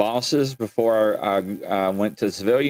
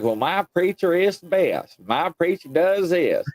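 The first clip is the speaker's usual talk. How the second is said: boastful churchgoer; 6 semitones higher than usual. Retold or imitated. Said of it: "a lot of people is like".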